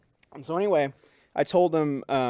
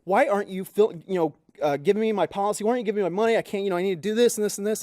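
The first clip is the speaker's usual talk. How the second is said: higher-pitched retold rant, mild yell; mock yelling; 5 semitones higher, faster than usual. Neighbor berating an insurance person on the phone, mildly mock-yelled. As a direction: imitate an irate caller, pitch up, without really shouting. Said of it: "she's yelling at this insurance person".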